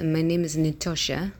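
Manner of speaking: improvised, tentative Russian accent. Shown as a demonstration. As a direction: introduce yourself with an attempted Russian accent. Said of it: "I speak with Russian accent".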